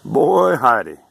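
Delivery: put-on "Boy" jumps high and loud, "Heidi" falls; Texan exclamation. Shown as a demonstration. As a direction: blurt it out at the workbench. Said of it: "you're frustrated at something and you discover something".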